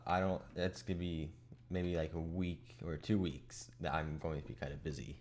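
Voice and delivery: sleepy, just-woken-up voice; morning voice. Real, not acted. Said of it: "this is my morning voice".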